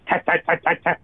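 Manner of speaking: quick, even run of machine taps; imitated jackhammer taps. Rescuer recalling machinery running while he slept, imitating rapid tapping. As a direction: tap it out like a jackhammer.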